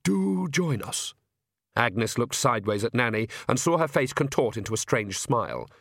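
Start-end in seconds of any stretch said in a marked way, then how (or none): 0.0-1.1 high, drawn-out anxious invitation; desperate. A narrator's reading. King begging Nanny to join the group, desperate. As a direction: plead politely, slowly, at a higher pitch. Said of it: "said Verence desperately".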